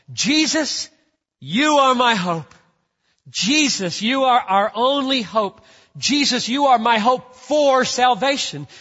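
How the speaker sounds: high, loud, emphatic appeal to Jesus; model prayerful declaration. Shown as a demonstration. Preacher modeling family talk to Jesus, loud and fervent. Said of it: "Talk like this".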